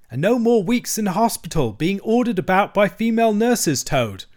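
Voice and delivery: high, lilting mole voice; coaxing mole. A narrator's reading. Mole adding comfort while locking Toad in, coaxing.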